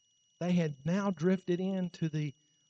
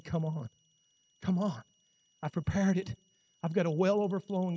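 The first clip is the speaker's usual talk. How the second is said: a hint of a gentle God. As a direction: coax them in gently. God voiced inviting the people.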